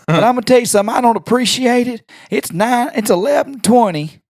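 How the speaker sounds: imitating a furious dad woken late; mock outraged Southern dad; angry dad. Quoting angry Mackey.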